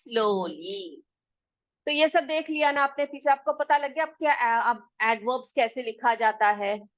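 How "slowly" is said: stretched out, each word slow; teacher dictates slowly for pupils to copy; very slow dictation. Shown as a demonstration. Teacher slowly dictates the answer to the class. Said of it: "तो उसमें कछुआ कैसे चलता है?".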